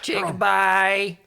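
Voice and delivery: slow, level creature speech; simple creature naming things word by word; drawn-out broken English in a put-on voice; Belle's voice.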